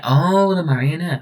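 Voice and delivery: high, drawn-out oh of recognition; acted recognition. Hearing the marionette named, mock-impressed recognition. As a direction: let the oh swoop up high, then settle. Reacts to the name.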